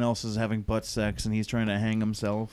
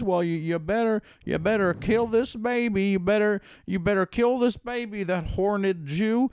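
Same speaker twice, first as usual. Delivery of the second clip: mock Alan; 6 semitones higher than usual. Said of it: "sometimes he goes".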